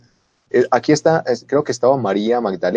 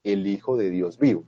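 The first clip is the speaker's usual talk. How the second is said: forceful confession; 3 semitones higher, slower than usual. Acted.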